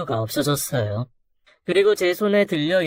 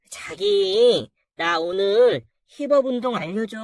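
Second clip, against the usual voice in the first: flirty gym client. Acted. Gym client coos at husband.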